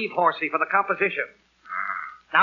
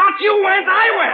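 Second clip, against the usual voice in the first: I went, higher and louder in frustration; exasperated; 8 semitones higher, 4 dB louder than usual. Acted. Father correcting his daughter, exasperated. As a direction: hammer the correction home.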